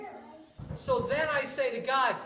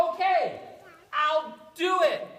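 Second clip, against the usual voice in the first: resolute Moses; 5 semitones higher, 5 dB louder than usual. Acted. Moses finally agreeing.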